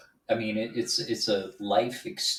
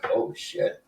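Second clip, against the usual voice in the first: whispered oh shit. Retold or imitated. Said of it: "and if it's like".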